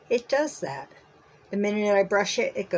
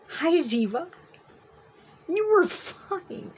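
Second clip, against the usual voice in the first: talking to a dog; 10 semitones higher than usual. Real, not acted. Cooing to her dog.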